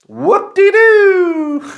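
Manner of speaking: sarcastic. Real, not acted. Mocking his single hour of sleep, sarcastic cheer. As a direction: drag it out with dry sarcasm.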